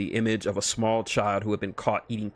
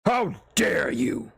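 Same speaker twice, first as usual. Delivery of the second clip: much higher, slow, indignant; Doom leaping up, insulted; outraged; 10 semitones higher, much slower than usual. Acted. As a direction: draw out the outrage.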